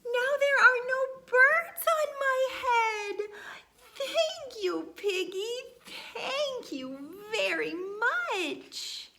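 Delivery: giddy laughing thanks; laughing joy. Acted. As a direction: laugh with relief and gratitude. Elephant overjoyed, thanks Piggy.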